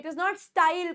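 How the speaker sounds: style with a full ee, "sta-eel"; wrong pronunciation of style. Shown as a demonstration. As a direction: say style as a mistaken "staa-il". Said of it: "अ और यल की आ रही है". (style को गलत "स्टाईल" बोलते हुए)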